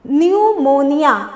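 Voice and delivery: "न्यूमोनिया" drawn out from an n sound; silent P. Shown as a demonstration. Teacher showing the pronunciation to learners, "न्यूमोनिया" with silent P. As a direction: say "न्यूमोनिया" slowly, with no p. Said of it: "इसका pronunciation देखिए".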